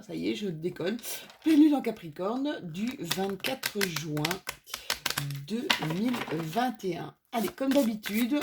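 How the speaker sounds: ordinary talk, nothing marked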